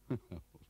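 short voiced laugh; acted laugh. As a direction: let out a brief laugh. Turner laughs before his bitter outburst.

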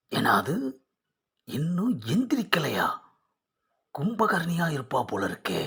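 indignant surprise. Acted. Groom surprised, wife still asleep.

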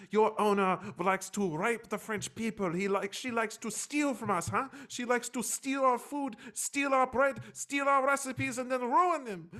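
high, indignant and slow, a mock rant about the bread; hammed-up fury over a sandwich; outraged French woman. To the waiter, an imitated French woman in an outraged rant. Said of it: "she's like".

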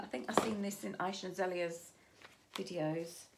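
usual speaking voice

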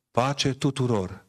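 slow, solemn church greeting; liturgical intoning. Retold or imitated. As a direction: intone it like at the altar. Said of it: "în biserică noi spunem". (intonat liturgic, rar)

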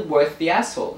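"asshole" for "hassle", its H left silent; Italian-style silent H, making "asshole"; dropped H. Real, not acted. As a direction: drop the H so it comes out "asshole". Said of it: "we don't pronounce the H".

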